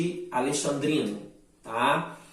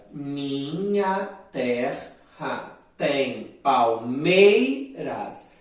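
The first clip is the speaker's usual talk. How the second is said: very slow, each poetic syllable pulled apart; syllable-by-syllable scansion; 3 dB louder, much slower than usual. Shown as a demonstration. Teacher splitting a verse into syllables for students, slowly. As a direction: chop "Minha terra tem palmeiras" into slow, separate poetic syllables. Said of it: "Percebam só a divisão poética".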